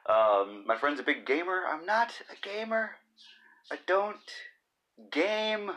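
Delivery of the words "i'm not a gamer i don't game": high mock denial.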